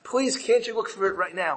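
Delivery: lightly acted tearful plea; pleading. Wife begging the merchant to show her the letter, pleading. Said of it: "starts crying and pleading and says".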